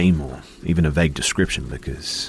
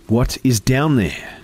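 insistent; 9 semitones higher, 5 dB louder, slower than usual. A narrator's reading. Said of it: "she repeated again".

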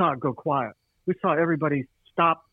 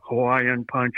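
robot voice; 3 semitones lower than usual. Retold or imitated. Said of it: "in a robot voice".

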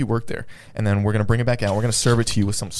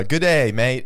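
mock Australian accent; 2 semitones higher, 3 dB louder, much slower than usual. Showing the others how it's done, mock Australian. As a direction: ham up an Australian hello. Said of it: "That was Australia".

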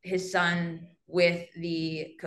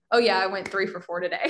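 offhand tacked-on brag; 3 dB louder, faster than usual. Retold or imitated. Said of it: "then occasionally we'll add in".

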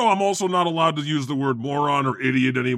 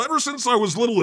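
repeated quickly, pitched higher and more urgent; dramatic echo; 6 semitones higher, much faster than usual. Acted. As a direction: echo it higher, pushing forward. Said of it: "a dramatic reading of a song".

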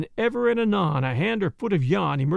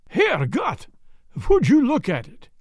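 high, loud horrified exclamation; 5 semitones higher, 4 dB louder than usual. Acted. Jan cries out in horror at the rising tent. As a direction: gasp it out in German horror. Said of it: "The horror in John's voice".

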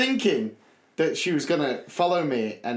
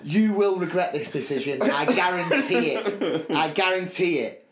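mock threat; 3 semitones higher than usual. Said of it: "giving it".

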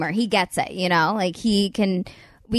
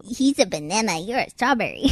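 put-on cutesy baby talk. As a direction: coo it like talking to a baby. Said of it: "I have to stop with the baby voice".

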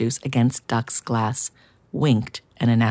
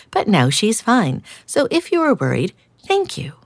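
polite cat sister; 5 semitones higher than usual. Acted.

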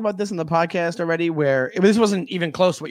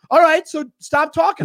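mock gruff driver; 8 semitones higher, 3 dB louder than usual. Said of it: "he goes".

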